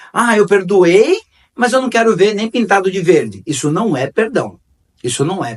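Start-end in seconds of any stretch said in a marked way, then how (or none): 0.1-3.4 mocking quote. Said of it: "eu vejo muita gente falando assim".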